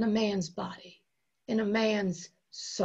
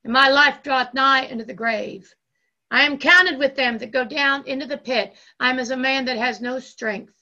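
loud declaimed psalm lament; crying out; 2 semitones higher, 6 dB louder than usual. Acted. Preacher reads Jesus's plea from the pit, loudly crying out. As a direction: read it out forcefully, as a cry. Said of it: "He was in hell crying out".

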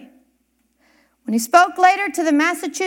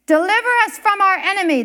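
imploring plea; 5 semitones higher, 3 dB louder, much faster than usual. Retold or imitated. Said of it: "the minister implored".

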